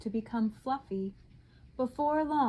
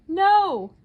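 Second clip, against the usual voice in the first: gasped; 8 semitones higher, 10 dB louder than usual. A narrator's reading. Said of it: "gasped the rhinoceros".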